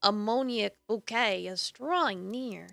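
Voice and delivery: measured, dramatic narrator reading; storyteller setting the scene; story narration. A narrator's reading. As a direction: narrate the scene with deliberate emphasis. Reads game narration aloud.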